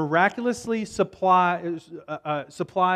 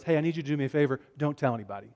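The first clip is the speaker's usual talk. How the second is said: quieter, lower, as if keeping a secret; confiding request; 4 semitones lower, 6 dB quieter, much faster than usual. Acted. Jesus asking someone to keep a miracle secret, confiding. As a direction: drop the voice for a private favor.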